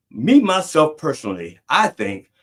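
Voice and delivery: mocking, stress on "Me"; mocking comedian. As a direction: ham up the redundant "Me, myself, personally". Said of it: "I'm like".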